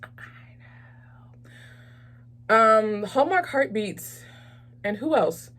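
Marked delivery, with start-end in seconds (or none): 0.0-3.0 barely audible whisper; mock-amazed whisper. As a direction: whisper it as if sharing astonishing gossip. Mock amazement at fun fact.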